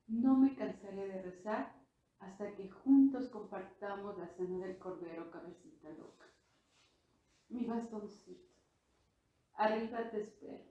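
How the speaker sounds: a grandfather tenderly comforting his crying granddaughter, softening to a hush; gentle, rising emotion, then barely above a breath at the end; loving reassurance from a dying man. Retold or imitated. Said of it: "me coge con una ternura increíble".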